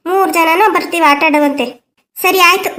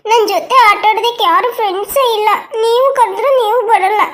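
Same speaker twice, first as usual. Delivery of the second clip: put-on higher, tearful sulking little girl; a lonely child sobbing to the grown-ups; crying child; 5 semitones higher than usual. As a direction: whine through tears that nobody plays. Child sulks, crying, nobody plays.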